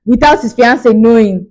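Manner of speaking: loud exasperated outrage at him; indignant rant. Retold or imitated. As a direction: vent the outrage loudly, shaking your head. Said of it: "I was just like".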